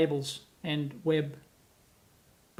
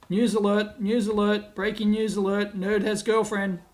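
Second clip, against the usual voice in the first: lightly put-on breaking-news bulletin; mock news announcer. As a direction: tease with a pretend news flash.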